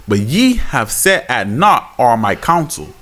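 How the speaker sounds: slow, solemn reading of Proverbs; measured, solemn Bible reading; scripture reading. Acted. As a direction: read the verse like a preacher. Reads scripture.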